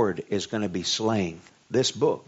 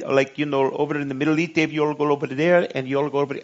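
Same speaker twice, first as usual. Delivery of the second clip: joke Southern voice; 4 semitones higher, faster than usual. Pretend. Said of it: "I don't know why it's Southern".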